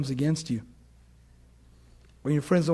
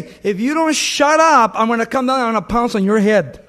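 loud, high, slowed threat at hecklers; angry shout; 3 semitones higher, 6 dB louder than usual. Retold or imitated. Preacher warning gangsters in the crowd, furious shout. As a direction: bark it down at the rowdy crowd.

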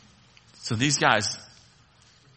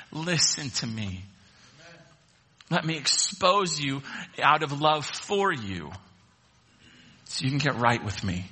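gentle voice of God. Retold or imitated. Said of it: "God's grace to you saying".

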